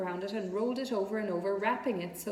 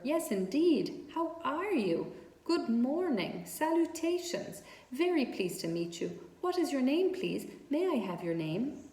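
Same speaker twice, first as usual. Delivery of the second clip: eager greeting; 5 semitones higher than usual. Acted. Wilbur greets the spider eagerly.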